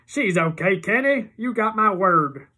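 high, loud slow reassurance; nervous promise; Iggy assuring the father; Iggy reassuring. A narrator's reading.

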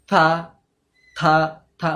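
থা with the tongue bitten hard between the teeth; bitten tha. Shown as a demonstration. Teacher showing the biting mistake, a hard থা. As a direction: press the tongue firmly and say থা. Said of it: "মানে জিভটা কামড়ে নেয়".

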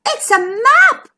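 loud, high, drawn-out exclamation; exclaiming. A narrator's reading. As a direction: exclaim the discovery, slowly and loudly. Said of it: "exclaimed McMeer".

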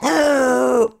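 big gasp. Pretend. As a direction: suck in air to hold your breath. Holding breath against smell.

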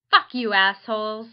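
loud mock yell of the insult; all-caps shout. Reading an all-caps hate letter aloud, loud mock yell. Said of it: "This is in all caps".

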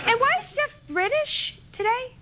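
laughing, rising question. Real, not acted. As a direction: giggle the question at him. Guest laughs at sidekick.

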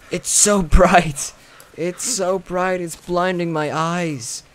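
slow, drawn-out whine about the glare; hammed-up squint at the bright light; mock dazzled. Gamer dazzled by the airdrop glare, slow mock whine.

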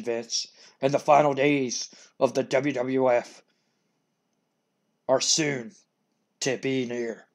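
slow, loud, drawn-out threat; menacing Undertaker. Acted. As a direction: lay out the prophecy slowly, like a dark preacher. Undertaker threatening Vince in ring.

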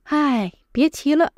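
sighing, defeated 唉; helpless sigh. Shown as a demonstration. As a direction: sigh then give up. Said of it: "Generally with a helpless tone".

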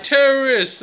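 high, loud cry of accusation; mock alarmed shout. Onlookers accusing the kid with the bag, mock alarmed shout. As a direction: shout it like an imitated panicked crowd.

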